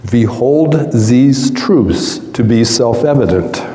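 put-on slow, heavy Eastern European accent; a lightly voiced old man with a heavy Eastern European accent. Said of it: "with a very heavy Eastern European accent".

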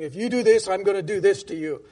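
understated angry-god threat. Acted. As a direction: lay down a warning like a vengeful god. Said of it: "They're usually an angry God".

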